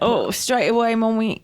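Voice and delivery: lightly voiced obedient mummy's boy; Max impression. Dutiful son answering Mummy, lightly put-on voice. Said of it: "He's like".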